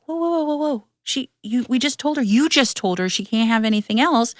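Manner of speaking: high-pitched whoa whoa, scolding the husband; alarmed protest. Retold or imitated. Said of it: "And I'm like".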